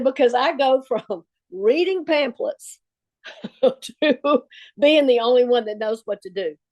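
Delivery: amused disbelief, laughter breaking in; laughing while quoting. Real, not acted. Laughing at her odd claim.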